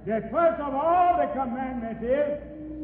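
slow and deliberate. Shown as a demonstration. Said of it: "Go slow so that people can get a good understanding".

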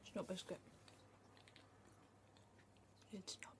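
talking between bites; chewing while talking. Real, not acted. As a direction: mouth partly full, muffled. Seen 0: Ate biscuit before; closed lips and jaw work while speaking.

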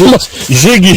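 slow words through laughter; laughing. Real, not acted. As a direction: laugh while saying it slowly. Laughing at the food's look.

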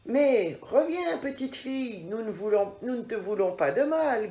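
lightly voiced father bear; papa bear calling. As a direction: call after the girl like a bear. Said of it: "gronde papa ours".

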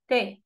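"تا" with a thin, front t; light ta. Shown as a demonstration. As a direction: say "تا" plainly, without any fullness. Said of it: "لكن الت".

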